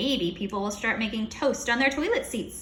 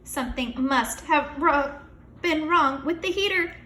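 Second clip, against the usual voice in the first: laughing panic; 9 semitones higher, 7 dB louder than usual. Acted. Klutz reporting fire, laugh cry.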